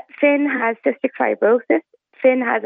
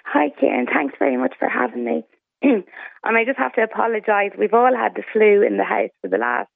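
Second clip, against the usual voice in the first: flu voice. Real, not acted. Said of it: "So this is not normally my voice".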